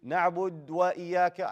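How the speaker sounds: "na'bud wa" with bare d before w; missing dhamma. Shown as a demonstration. Teacher imitates student's mistake, dhamma dropped. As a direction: run "na'bud" into "wa" without an "oo". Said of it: "No, you didn't".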